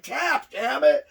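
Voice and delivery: high, loud, drawn-out order; acted exasperated command; mad. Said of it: "getting mad, going".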